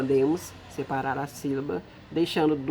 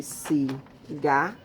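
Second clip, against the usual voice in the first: Cigarra drawn out: ci-gar-ra; slow syllable split; much slower than usual. Shown as a demonstration. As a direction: split Cigarra slowly to show where it is cut. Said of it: "Eu parti entre o si". (Cigarra separada devagar)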